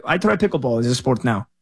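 put-on half-hearted Russian accent, quoting a tired pro; bad Russian accent. Tennis pundit quoting Medvedev giving up, in a bad Russian accent. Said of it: "That's my bad im-, imitation of a Russian accent".

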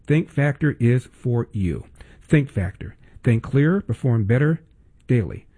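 polished sponsor read, measured emphasis. Acted. Host pitches a supplement to his listeners, ad read. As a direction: sell it smoothly, phrase by phrase.

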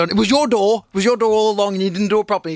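mad dad. Retold or imitated. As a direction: blame the kid, fuming. Angry dad back in the car.

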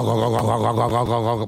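rapid repeated mouth-made drill noise; mock construction noise; imitated drilling noise. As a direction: imitate the racket through the wall. Imitating building works next door.

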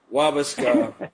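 "Wabasca" said slowly as WAH-buh-skah; repeating corrected pronunciation. Shown as a demonstration. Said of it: "Wow, that's even harder".

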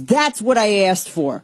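slipping into a Brooklyn accent. Real, not acted. Host griping about Texas weather, hint of Brooklyn accent. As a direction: say it with a touch of Brooklyn. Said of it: "I don't know why I got Brooklyn there".

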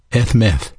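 ethmeth said as "eth-mith"; Hebrew pronunciation. Shown as a demonstration. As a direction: say ethmeth with "th" closing both syllables. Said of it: "The Hebrew word".

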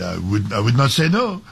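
mock French accent, lightly put on; invented French accent. Host mimics French player in a made-up French accent. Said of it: "I'm inventing the accent".

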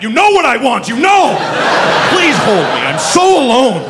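pleading outburst, pitched high; mock desperate plea. Man approaching a woman in a bar, desperate outburst. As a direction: blurt it out as a hammed-up needy plea.

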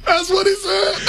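said through a high laugh; can't hold it together. Real, not acted. Repeating bit while laughing.

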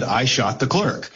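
flat, matter-of-fact statement read back; deadpan. Retold or imitated. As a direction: read it dry like a court transcript. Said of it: "the sheriff deadpan says".

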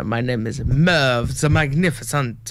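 lightly hammed vampire host. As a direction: announce yourself like a spooky count. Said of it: "I don't know why I'm changing voices".

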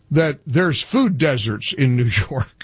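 scoffing laugh mid-word. Real, not acted. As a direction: laugh in disbelief. Host scoffs at food deserts claim.

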